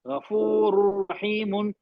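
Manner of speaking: गफूरुर रहीमुन drawn out, nun merged into ra; slow recitation. Shown as a demonstration. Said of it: "नून की आवाज नहीं आ रही".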